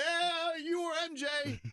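quick squeaky topic throw; mock handler. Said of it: "he's just like".

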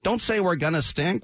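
high-pitched imitation of alarmed hushing; mock panicked shushing. Team staff stopping new boss's candor, mock panicked shushing. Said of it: "I'm sure everybody was like".

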